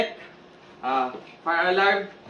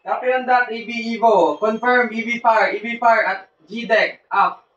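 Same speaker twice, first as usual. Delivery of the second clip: loud confirmation; 3 semitones higher, 6 dB louder than usual. Acted. Officer confirms fire loudly.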